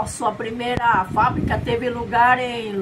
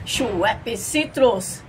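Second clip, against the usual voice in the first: announcer voice; much slower than usual. Acted. Product name announced again.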